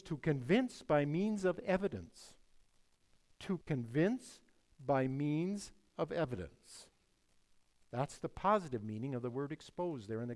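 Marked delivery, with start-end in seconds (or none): 3.4-6.9 slowly, phrase by phrase; measured and emphatic, taking time over each phrase; slow, deliberate. Real, not acted. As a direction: spell out the definition slowly, pausing after "convince". Repeats a definition for emphasis.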